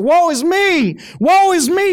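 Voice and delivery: loud, high preacher's wail of woe; high-pitched, full-voiced lament; anguished cry. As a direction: cry out in dread, voice thrown high. Isaiah's cry before God, acted.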